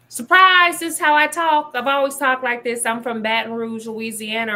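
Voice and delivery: spring it on them like a surprise; mock surprise reveal. White Southerner revealing how they talk, loud and delighted.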